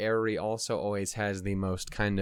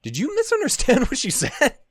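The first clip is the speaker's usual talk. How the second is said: mocking commenters; 13 semitones higher, 7 dB louder than usual. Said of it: "people in the comments are like".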